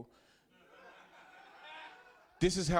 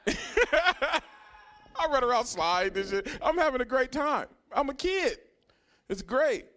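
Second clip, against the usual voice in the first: put-on much higher and louder, laughing into a giddy kid's thrill; gleeful kid; 11 semitones higher, 5 dB louder, slower than usual. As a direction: relive the floor-sliding joy like a kid. Recalling sliding on the floor as a kid.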